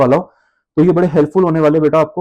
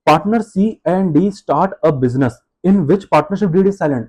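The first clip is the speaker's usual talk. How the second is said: dictates the question word by word; reading the case to students, very slowly; much slower than usual. Acted. Reads question aloud slowly.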